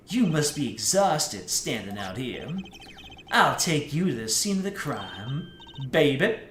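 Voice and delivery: a light take on a suave cool guy. Acted. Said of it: "my generic cool guy voice".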